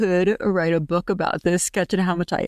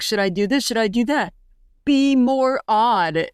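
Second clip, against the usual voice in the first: imitating Fergie impression; 4 semitones higher than usual. Quoting the actress playing Fergie in the sketch, higher playful mimicry. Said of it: "the way she said it was so funny".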